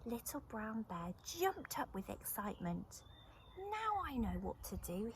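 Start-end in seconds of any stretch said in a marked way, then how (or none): 3.6-5.1 a touch of eager lift, higher; cried. Acted. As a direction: bear suddenly gets his idea. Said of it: "he cried".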